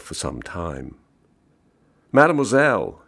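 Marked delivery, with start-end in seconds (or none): 2.1-3.0 loud, high-pitched summons; calling out. A narrator's reading. Mister Wheeler's call to the waitress who went away, calling out. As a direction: call the waitress over from across the room. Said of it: "he called".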